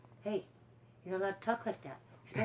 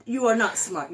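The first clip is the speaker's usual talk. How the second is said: slow and loud, calling the bird's bluff; loud mock challenge; 9 dB louder than usual. Real, not acted. Owner calling bullshit on her parrot, slow and loud. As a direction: lean in and call it out, drawn out.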